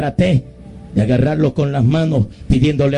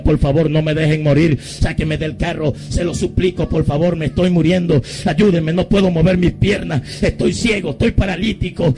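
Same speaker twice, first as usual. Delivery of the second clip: desperate pleading; 5 semitones higher than usual. Retold or imitated. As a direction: pitch climbing into a high, frantic plea. Acted begging of passers-by to save him.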